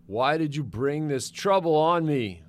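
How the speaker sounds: loud, high-pitched accusing question; upset reproach. A narrator's reading. Father blaming his sons for trouble, reproachful. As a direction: demand an answer in exasperation.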